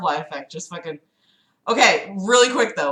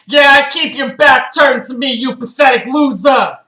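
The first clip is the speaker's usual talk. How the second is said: loud, higher taunting shout; mock scream; 3 semitones higher, 5 dB louder than usual. Reading Philip screaming at the narrator's back, loud mock yell. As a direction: yell it at his turned back. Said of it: "Philip screamed at the back of my head".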